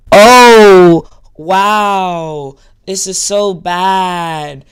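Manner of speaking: loud gasp, then slow disgusted verdict; hammed-up offended viewer; mock outrage. Parodying offended viewers with mock outrage.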